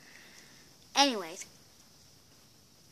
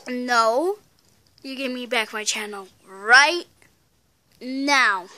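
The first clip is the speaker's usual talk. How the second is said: demanding; 5 dB louder than usual. Real, not acted. Demanding channel back.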